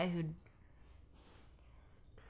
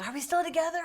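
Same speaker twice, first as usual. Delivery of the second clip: high, louder mock pleading; pleading boyfriend; 12 semitones higher, 6 dB louder, much faster than usual. Ex-boyfriend pleading to stay together, high and loud. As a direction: beg in a high anxious voice.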